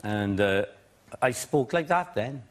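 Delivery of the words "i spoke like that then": lilting valleys Welsh; Welsh accent. Shown as a demonstration. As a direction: sing it gently in a Welsh lilt. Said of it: "a very lovely Welsh accent".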